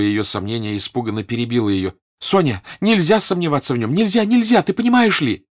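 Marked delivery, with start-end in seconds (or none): 2.2-5.5 high, loud, frantic insistence; urgent shout climbing very high; shouted protest. A narrator's reading. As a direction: cry out to silence all doubt. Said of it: "прокричала она".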